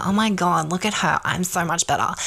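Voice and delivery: lightly put-on smug comparison; a touch of conceited bragging; mock cockiness. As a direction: imitate a show-off putting someone down. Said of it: "it's not cockiness".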